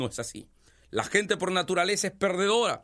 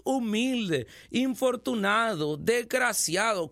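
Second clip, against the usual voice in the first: slow, pleading self-pitying prayer, lightly acted; mock a beggar praying pitifully; poor man's prayer; slower than usual. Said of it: "miren, pobremente".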